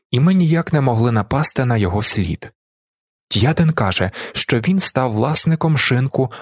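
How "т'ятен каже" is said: ordinary delivery, nothing marked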